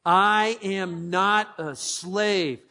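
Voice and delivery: very slow, each word weighed; slow declaration. Shown as a demonstration. Pastor giving the church a phrase to repeat, slowly. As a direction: say it like a creed. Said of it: "say it with me".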